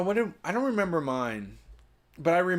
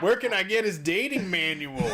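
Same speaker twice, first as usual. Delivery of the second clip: Adam Carolla; 4 semitones higher than usual. Retold or imitated. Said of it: "Adam Carolla's like".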